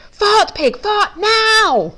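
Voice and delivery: high, loud, insistent command; shouting. A narrator's reading. Duck ordering Pig over the rocket noise, shouting. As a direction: yell it urgently, stretching the last word. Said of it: "I hear Duck shout".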